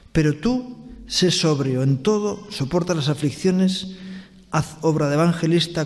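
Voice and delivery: measured, solemn Bible reading; scripture reading. Acted. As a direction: read the verses like a preacher at the pulpit. Reads scripture from Timothy.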